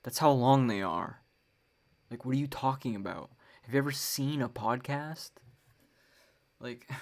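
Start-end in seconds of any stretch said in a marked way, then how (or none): 0.0-5.3 louder, exasperated comeback; retorting to complainers. Retold or imitated. Podcaster retelling his reply to complaining friends, louder and exasperated. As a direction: fire it back at them, fed up. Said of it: "And I'm like".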